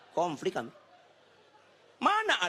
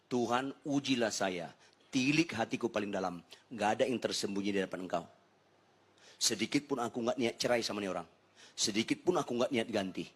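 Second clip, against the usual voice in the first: lower-pitched, confiding plea to God; retold prayer; 4 semitones lower than usual. Husband confesses to God as wife sleeps, lowered prayer. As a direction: recreate a private, earnest prayer, voice dropped. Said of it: "saya bilang sama Tuhan".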